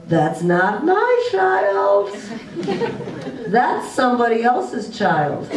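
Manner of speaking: slow, laughing through the words; chuckling as she talks herself out of yelling; laughing self-talk. Retold or imitated. A mom laughing as she tells herself the kids aren't hers. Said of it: "and I would go".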